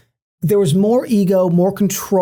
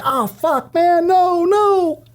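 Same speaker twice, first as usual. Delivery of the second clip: exasperated groan; 12 semitones higher, much slower than usual. Retold or imitated. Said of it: "I'm like".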